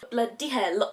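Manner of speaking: mock-Welsh exclamation; badly faked Welsh accent on an exclamation. Vlogger exclaiming over her blush in a bad Welsh accent. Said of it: "doing this really bad Welsh accent".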